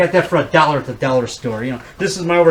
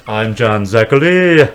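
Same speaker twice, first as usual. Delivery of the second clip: slow, lightly voiced horror host; a hint of John Zachary's drawn-out intro; John Zachary impression; 4 semitones lower, 3 dB louder, slower than usual. Introducing himself as the horror host, lightly voiced. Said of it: "pretty good impression".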